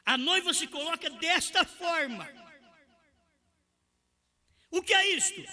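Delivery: high, forceful preaching voice; pregação inflamada. Acted. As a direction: preach it high and insistent, driving each point home. Prega com toda a força. (pregação inflamada em tom alto)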